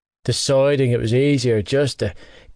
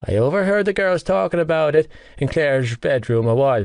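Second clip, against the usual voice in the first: a touch higher, lightly voiced cheeky mate; Gibbsy voiced; 4 semitones higher than usual. Teasing best friend Johnny about Shannon, lightly voiced mate. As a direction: needle your friend with a teasing lilt.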